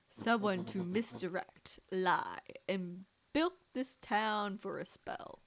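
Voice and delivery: smooth scheming villain, lightly voiced; a hint of a gloating mastermind. Villain explains his scheme.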